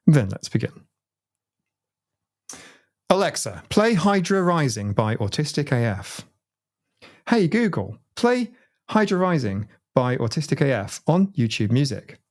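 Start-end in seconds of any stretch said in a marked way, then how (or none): 3.1-6.3 slow, clear command to a smart speaker; deliberate smart speaker command. Pretend. 7.3-12.2 slow, clear command to a smart speaker; deliberate smart speaker command. Pretend.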